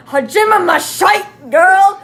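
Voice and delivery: bright, high, loud hello; happy greeting. Acted. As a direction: greet her with delight. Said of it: "she said happily".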